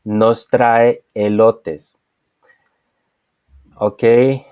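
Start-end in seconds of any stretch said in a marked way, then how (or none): 0.0-2.0 slow model sentence. Shown as a demonstration. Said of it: "In the second example, we have".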